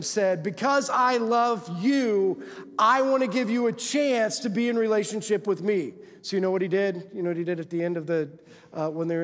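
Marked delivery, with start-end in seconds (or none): 0.4-5.9 slow opening, raised preaching voice; higher, fervent preacher speaking as God; emphatic divine declaration. Acted. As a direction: proclaim God's love, stretching the first words. Voices God's loving declaration.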